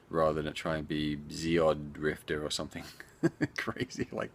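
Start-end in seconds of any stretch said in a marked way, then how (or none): 1.3-2.4 "Zeod Drifter" with the D pulled back onto Zeo; mispronounced name. Shown as a demonstration. Showing how people might misread the game's name, "Zeod Drifter" mispronounced. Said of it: "helps people pronounce it as well".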